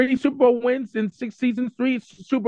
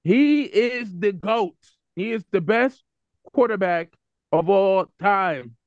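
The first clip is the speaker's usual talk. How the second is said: slow, spaced-out verdict; deliberate, weighty declaration; emphatic proclamation; slower than usual. Real, not acted. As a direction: spell it out phrase by phrase, drawing out the ends.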